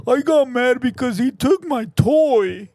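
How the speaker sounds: lightly voiced sulky child; a hint of a whining kid; mock tantrum, barely changed from own voice. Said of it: "a full-blown child out here talking about".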